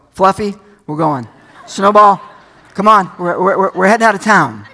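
friendly shepherd's call to the sheep. Retold or imitated. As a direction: call the flock home like a shepherd. Shepherd calling sheep by name.

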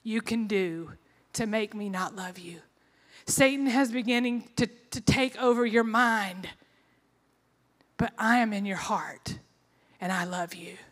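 tender reassurance. Retold or imitated. God to a struggling woman, tender reassurance. Quoting God's words of love to her.

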